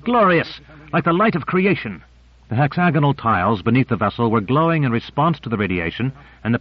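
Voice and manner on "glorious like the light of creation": cried out in awe. Acted. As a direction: burst out in wonder at the light. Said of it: "Duval cried out".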